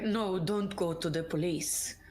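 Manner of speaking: put-on a clumsy stab at Hagen's accent, slightly low; faked Hagen accent. Co-host quoting Hagen's line in a failed attempt at Hagen's accent. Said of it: "I'm ruining the accent for sure".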